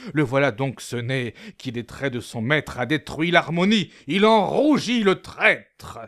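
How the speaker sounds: soft, parodied tragic lament; hammy weeping tragedian; mock sob. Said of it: "parodiant Pyrame en un sanglot".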